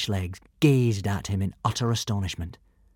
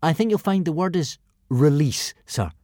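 polite; 5 semitones higher than usual. Acted. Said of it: "advised Hiccup politely".

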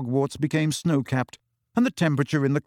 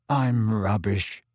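slow, low croak; 4 semitones lower, much slower than usual. Acted. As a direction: croak it out miserably. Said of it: "croaked Ron".

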